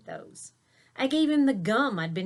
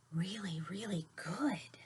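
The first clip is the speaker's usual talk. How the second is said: amazed whisper; 9 dB quieter than usual. Acted. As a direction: whisper in delighted surprise. Smelling something delicious.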